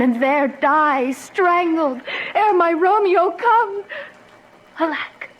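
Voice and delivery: slow, crying through the words; choked with tears at the thought; near tears. Acted. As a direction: let the sob break into the line. Juliet's terrified potion soliloquy.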